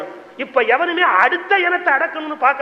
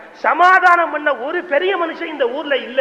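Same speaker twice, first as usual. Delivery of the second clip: lamenting; 4 semitones higher, 4 dB louder than usual. Retold or imitated. Seller laments no peacemaker.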